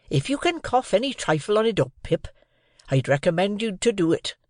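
Joe's high, swooping voice of dismay; aghast. A narrator's reading. Joe urging Pip to cough it up, aghast. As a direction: advise him as if appalled. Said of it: "all aghast".

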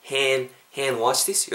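"hand" with wide vowel, slow "hand wash this"; spread-lipped start. Shown as a demonstration. Teacher demonstrates mouth shape, "hand" wide and without d. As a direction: start "hand" with lips already pulled sideways. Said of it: "입을 이렇게 옆으로 째고 시작하세요".

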